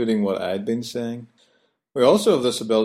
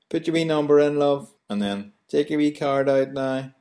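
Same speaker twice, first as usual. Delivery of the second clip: put-on higher, friendly Belfast shop girl; be the wee girl at the till; lightly voiced Belfast cashier; garage girl; 5 semitones higher than usual. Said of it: "the wee girl will always say".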